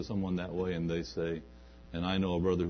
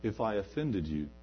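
mock half-apology; 3 semitones lower, 6 dB quieter than usual. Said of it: "no confession that begins with the word if".

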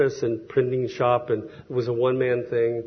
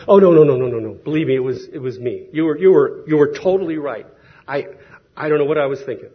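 eager apology; 6 dB louder, faster than usual. Retold or imitated. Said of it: "And he goes".

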